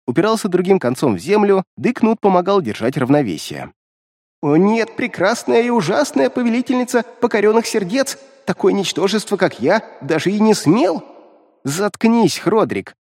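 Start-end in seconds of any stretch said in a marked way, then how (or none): 4.4-11.0 high, grovelling flattery; fawning imp. Acted. Imp fawns over the demoness. 11.6-12.9 curt, sharp command; sharp snap. Acted. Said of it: "резко бросила Иштар".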